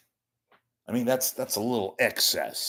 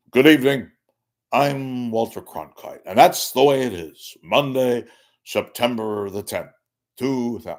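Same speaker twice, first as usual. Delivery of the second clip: louder, a little higher anchorman sign-off; Walter Cronkite; 3 semitones higher, 6 dB louder than usual. Retold or imitated. Host doing his one Walter Cronkite line for the chat. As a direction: give it the evening-news gravity. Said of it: "I don't do Cronkite other than".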